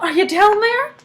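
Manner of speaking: high calling question. Acted. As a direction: call down into the hole. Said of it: "shouted Missus Salt".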